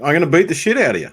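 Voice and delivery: quick, natural Australian accent. Shown as a demonstration. Australian showing the Yankees how he says it, Australian accent. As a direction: say it briskly, as an Australian would. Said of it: "How would you say it?".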